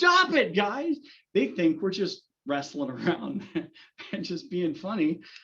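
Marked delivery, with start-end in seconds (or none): 0.0-1.0 very high, exasperated, annoyed shout. Retelling a car ride, quoting the speaker's wife calling back to the others: retelling a yell. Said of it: "my wife yells back".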